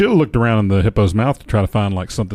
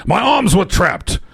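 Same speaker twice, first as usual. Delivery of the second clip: dramatic read; 5 semitones higher than usual. Acted. Dramatic reading of hippo story.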